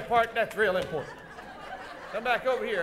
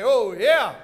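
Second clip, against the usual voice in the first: loud call-out for the crowd to echo; audience call-out; 6 dB louder than usual. Shown as a demonstration. Host cueing the audience to cheer, loud call-out. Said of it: "We say".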